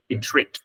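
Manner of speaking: "Intrigued" closed by a short d; final d sound. Shown as a demonstration. Teacher shows the ED ending, "Intrigued" with final d. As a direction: end "Intrigued" as in-TREEG'D, one final consonant cluster. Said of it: "âm E D phát âm là đờ".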